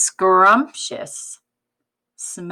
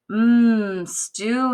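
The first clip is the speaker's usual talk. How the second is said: sigh; 4 semitones higher than usual. Acted. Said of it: "he sighed".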